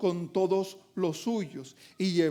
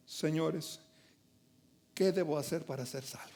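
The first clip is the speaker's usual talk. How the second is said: trembling plea; 6 semitones lower, 10 dB quieter than usual. Retold or imitated. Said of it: "todo temblando".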